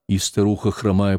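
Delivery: usual speaking voice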